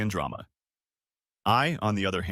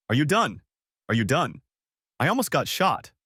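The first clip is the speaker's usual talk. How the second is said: louder, exasperated demand; exasperated outburst; 4 semitones higher, 3 dB louder than usual. Acted. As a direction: snap at her in disbelief. Husband quarrels with wife.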